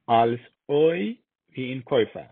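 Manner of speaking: "Käufer" with an oy glide; slow "oi", then "Käufer" as koy-fer. Shown as a demonstration. Teacher showing how ÄU is read, "Käufer" said koy-fer.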